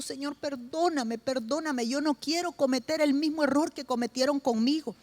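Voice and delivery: hushed retelling of a repentant cry, understated; retold tearful prayer. Husband weeping against the wall, begging God's forgiveness, softly. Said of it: "comenzó a llorar y a llorar y le dijo".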